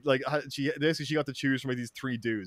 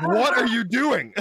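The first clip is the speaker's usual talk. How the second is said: shocked mother; 9 semitones higher, 7 dB louder, slower than usual. Retold or imitated. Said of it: "mother's like".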